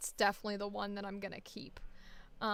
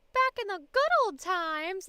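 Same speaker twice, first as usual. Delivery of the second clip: mock nostalgic; 8 semitones higher, 8 dB louder than usual. Mocking eighties nostalgia.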